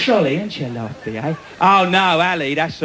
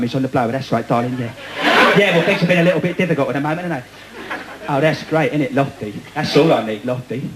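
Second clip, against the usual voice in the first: lightly voiced London bloke on the phone; a hint of a soap character moaning; EastEnders bloke; 4 semitones lower, faster than usual. Soap character on the phone to his darling, lightly voiced. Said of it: "a bloke who talks like that".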